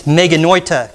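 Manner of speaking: meganoita, said clearly for the class to repeat; Greek meganoita. Shown as a demonstration. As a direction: model the Greek word meganoita. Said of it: "Can you say that?".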